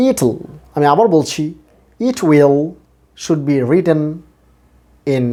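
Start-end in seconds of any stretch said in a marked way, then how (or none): 0.1-0.4 it'll with IT prominent, "IT-l"; stress on first syllable. Shown as a demonstration. Teacher repeats the primary stress, first syllable stressed. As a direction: lean on the opening of it'll. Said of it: "শ্বাসাঘাত করতে হবে".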